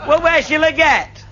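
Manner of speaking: anxious question. Retold or imitated. Nervous photographer asking.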